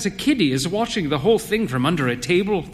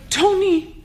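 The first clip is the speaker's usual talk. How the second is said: high, let-down call of his name; disappointed. Acted. Wife let down by her husband, disappointed. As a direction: voice sinking with disappointment. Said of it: "she said disappointedly".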